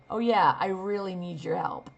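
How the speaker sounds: dry mocking brush-off; sarcastic. Shown as a demonstration. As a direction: say it like the last thing you need. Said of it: "What if you don't need their help at all?".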